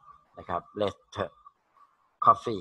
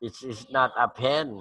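slow model sentence; 2 semitones higher, much slower than usual. Shown as a demonstration. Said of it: "teacher models sentence slowly".

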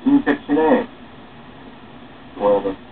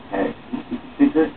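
fast, high and hushed; high hushed aside; 6 dB quieter, much faster than usual. Acted. Man asking the newcomer to keep a secret, hushed. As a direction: lean in and ask, secretive. Conspiratorial question to new guy.

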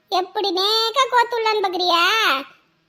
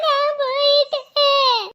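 slow, half-hearted mock lament; a subdued hammed-up whimper; 2 semitones higher, much slower than usual. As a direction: let the wail sag into a moan. Repeats wail, lower.

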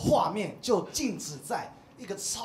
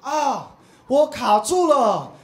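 loud, slow whiny cry for help; mock damsel plea; 8 semitones higher, 14 dB louder, much slower than usual. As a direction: ham up a helpless little sister. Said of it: "她居然在那边讲说". (拖长音的夸张求救)

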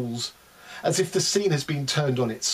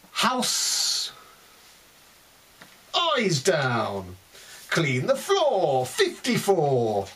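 bingo caller. Pretend. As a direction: rattle off the numbers like a bingo hall. Rapid run of bingo calls.

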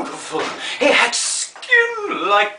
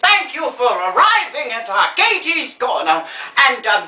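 grande dame advising, then signing off; theatrical old star. Acted. Old star advising a would-be model, theatrically grand. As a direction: lecture grandly, then thank the audience.

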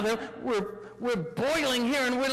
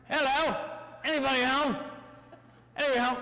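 calling out; 3 semitones higher, faster than usual. Acted. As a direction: call out for anyone aboard. Pirate calls up to the boat.

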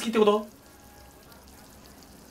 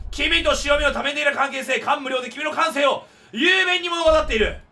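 raised, grandiose recital; hammed-up solemn orator; pompous philosopher; 5 semitones higher than usual. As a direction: read it like a lofty philosopher. Reading NPC's philosopher dialogue.

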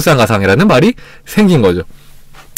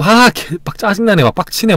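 mock annoyance; 5 semitones higher than usual. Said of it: "막 이렇게 화가 나면은".

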